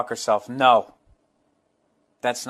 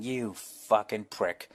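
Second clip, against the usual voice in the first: muttered thought; 4 semitones lower, 9 dB quieter, much slower than usual. Retold or imitated. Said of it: "you know they're thinking".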